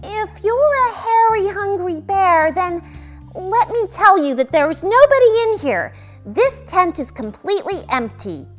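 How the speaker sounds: put-on high, nervous little-boy voice; frightened boy addressing a bear; shaky voice. A narrator's reading. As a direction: bluff nervously at a high pitch. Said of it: "with a shaky voice".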